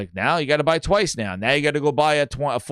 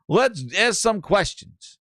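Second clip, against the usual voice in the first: slow mock Arnold accent; drawn-out Arnold-style imitation; Pierre; 3 semitones higher, slower than usual. Host imitating Pierre opening questions, slow Arnold accent. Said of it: "This is what he said".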